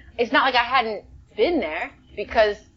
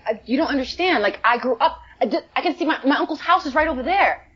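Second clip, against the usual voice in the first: laughing excitement; 7 semitones higher, faster than usual. Retold or imitated. Excited telling to the director.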